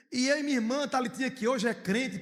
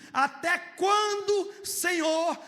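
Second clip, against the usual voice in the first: slow lament; 5 semitones higher, much slower than usual. Retold or imitated. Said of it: "ele começa assim".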